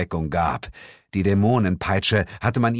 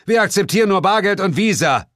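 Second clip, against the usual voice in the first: smug one-liner; 10 semitones higher, 5 dB louder, faster than usual. Acted. One-liner during the shootout.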